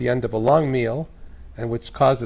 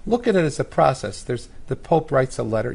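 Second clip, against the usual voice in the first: hoarse, worn-out voice. Real, not acted. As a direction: speak through a voice strained from screaming. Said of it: "You excuse my voice".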